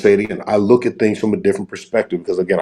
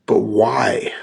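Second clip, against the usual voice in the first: whispered question; 3 dB quieter than usual. Real, not acted. Father making a point about dreams.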